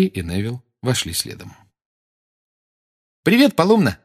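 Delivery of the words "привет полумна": put-on friendly girl. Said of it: "сказала Джинни".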